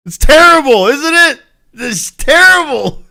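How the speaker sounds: high, loud, laughing mock outrage. Real, not acted. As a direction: scold yourself through laughter. Laughing at his own dirty joke.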